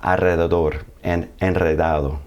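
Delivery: "Alrededor" and "enredado" with rolled R after L and N; trilled R after consonant. Shown as a demonstration. Teacher models R after L or N in Alrededor, enredado, trilled. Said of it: "it still tends to have that trill".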